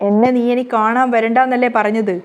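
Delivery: a mother forcing herself to push her daughter away; ഉറക്കെ, വേദനയോടെ; hurt insistence. Acted.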